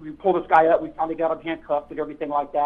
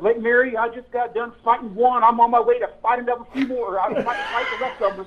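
mock-serious sergeant on the radio, a little higher; serious radio call; 5 semitones higher than usual. Sergeant radios in about his fights, mock-serious. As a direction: play it dead serious like a radio report. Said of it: "the seriousness of your voice".

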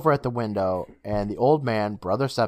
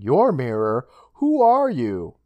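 incredulous questioning; 3 dB louder, slower than usual. Acted. Girl challenges the boy in retelling.

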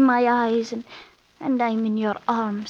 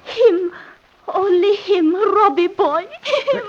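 passionate; 6 semitones higher, 3 dB louder, slower than usual. Acted.

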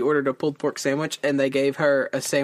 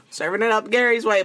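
laughing while joking, higher; 8 semitones higher, 4 dB louder than usual. Real, not acted. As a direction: giggle through the line. Joking about SpongeBob's Gary food.

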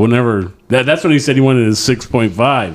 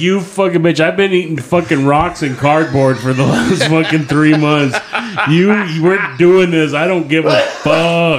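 retold rant; 4 semitones higher than usual. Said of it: "I fucking went ballistic".

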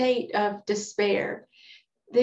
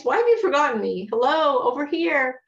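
louder and fast, calling out to be noticed; indignant plea; 4 semitones higher, 5 dB louder than usual. Retold or imitated. The psalmist calling out to a God who forgot him, louder and urgent. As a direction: demand attention from God, a touch exasperated. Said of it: "that's what the psalmist is saying".

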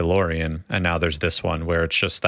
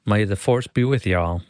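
Southern Star Wars line. Pretend. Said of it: "Maybe you could do it better".

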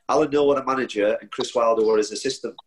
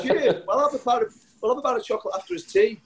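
mock pleading voice; 12 semitones higher than usual. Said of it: "I'd be like".

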